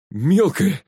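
glad, high-pitched call to a friend; joyful shout. A narrator's reading. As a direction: cry it out in delighted relief. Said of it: "радостно крикнул Глеб".

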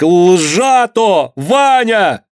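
acted high female cry; desperate woman's cry. A narrator's reading. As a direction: cry out in desperation to a loved one. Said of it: "один отчаянный женский крик".

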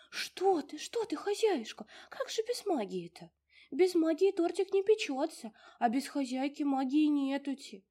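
high, loud fussy house-spirit voice; a tiny old domovushka fussing over her mistress; high bustling little house spirit. Acted. Domovushka voice in story.

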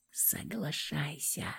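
breathy whisper right into her ear. A narrator's reading. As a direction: whisper it close and urgent. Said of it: "прошептал я в самое её ухо".

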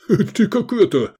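high, mocking amused question; smirking. Gefestai smirking at Iskander's sword trick. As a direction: tease him with a smirk. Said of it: "усмехнулся Гефестай".

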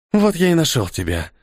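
a hint of an echoing ethereal being; otherworldly voice. A narrator's reading. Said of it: "заговорил он потусторонним голосом".

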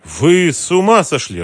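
high, loud, slow bewildered cry. A narrator's reading. Mara to the thugs, high and bewildered. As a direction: thrown completely off balance. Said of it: "растерялась она".

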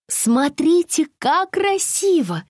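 high, slow, delighted exclamation; excited exclaim. A narrator's reading. A passenger delighted by the pink foam, exclaiming. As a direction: point out the window with wonder. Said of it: "воскликнула Алиса".

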